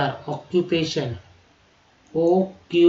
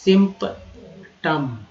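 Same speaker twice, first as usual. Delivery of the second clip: slow correct form; 5 dB louder, much slower than usual. Shown as a demonstration. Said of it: "याद रखिएगा, सिम्पटम नहीं".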